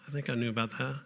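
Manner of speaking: a soft, unsure gym guy; sheepish admission. Retold or imitated. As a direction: admit it quietly, caught out. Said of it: "He said".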